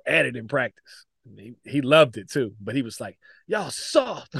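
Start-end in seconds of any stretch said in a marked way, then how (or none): 3.5-4.4 high-pitched mocking jab at the players; tossed-off, higher-pitched retold taunt; mock coach taunt. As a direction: imitate a coach needling his players.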